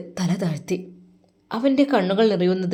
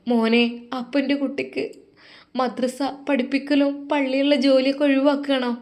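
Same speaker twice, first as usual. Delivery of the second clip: worried mother; 6 semitones higher than usual. Acted. Mother voice pleading.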